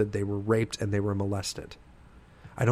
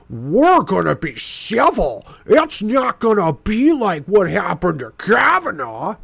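higher, slow, whimpering mockery; mock whiny Republicans; 7 semitones higher, 4 dB louder, slower than usual. Republican senators before the hearing, mocked as whiny and teary. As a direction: pout it out like a crybaby promising to behave. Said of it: "hearing said".

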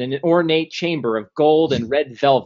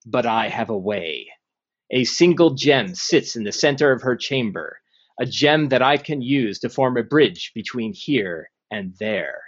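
ancient rasping undead king; 2 semitones lower than usual. Acted. DM voices the lich Zastam.

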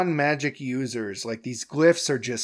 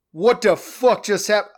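high, louder disbelief; incredulous outburst; 9 semitones higher, 4 dB louder than usual. Retold or imitated. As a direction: cut yourself off mid-word. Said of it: "that was like".

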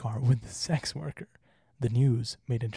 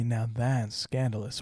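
slow, mock-shocked now that's scandalous; mock scandalized; slower than usual. Shown as a demonstration. Slow mock-shocked rating of the scandal. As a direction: drawl it with wide eyes. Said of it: "would you say".

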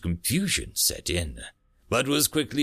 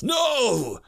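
furious alien shout, higher; venomous shout; 12 semitones higher, 4 dB louder than usual. Acted. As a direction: spit out the word in rage. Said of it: "Raw venom came from its mouth".

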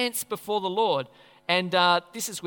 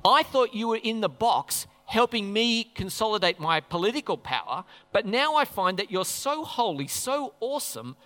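fearful David. Retold or imitated. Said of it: "It's fear".

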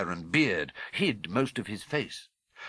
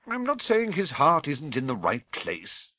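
higher-pitched grudging concession; 5 semitones higher than usual. Acted. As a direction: concede it reluctantly in a high voice. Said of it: "said Professor McGonagall grudgingly".

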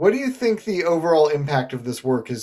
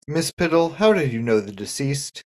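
distracted detective. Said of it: "not really listening when he asked".

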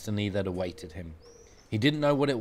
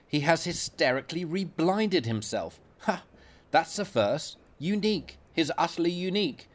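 a hint of a sneering senior doctor; smug consultant.

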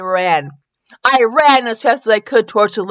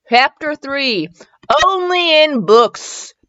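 slow, raised announcer-like heading; chapter announcement; 6 semitones higher, much slower than usual. A narrator's reading. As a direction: read the title out slowly and grandly.

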